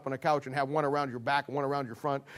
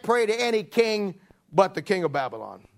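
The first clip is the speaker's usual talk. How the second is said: conspirators plotting; 3 semitones higher, 3 dB louder than usual. Acted. Conspirators plot against Daniel.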